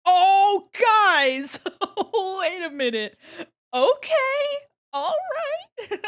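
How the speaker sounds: loud, high delighted yelp; excited shout. Real, not acted. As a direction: burst out at the reveal. Reacting to the finished gold model.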